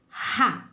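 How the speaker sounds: RA with a strong, breathy H-like R. Shown as a demonstration. Teacher showing word-initial R to learners, strong R in "ra". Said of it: "bem forte".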